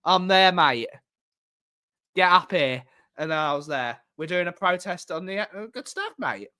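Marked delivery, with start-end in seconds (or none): 0.0-2.8 louder, slow mock cockney; cockney Perch. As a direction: put on a cockney mate's voice. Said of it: "Perchy goes all cockney".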